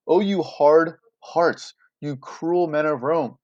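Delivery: slow, mildly angry plea; understated theatrical indignation; imploring with anger. Acted. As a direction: draw out the reproach, slowly. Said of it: "Imploring with anger".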